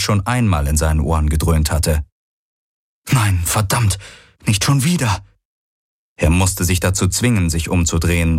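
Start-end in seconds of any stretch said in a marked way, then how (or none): 3.1-5.2 understated alarm, pitch climbing; acted exasperated alarm; alarmed dismay. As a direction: curse in mild dread, rising in pitch. Character dreads returning swarm overhead.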